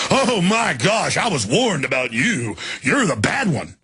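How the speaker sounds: slow, sing-song swooping mockery; mock alarm. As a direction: drag it out, ridiculing a scandalized accuser. Mocks those who accuse questioners.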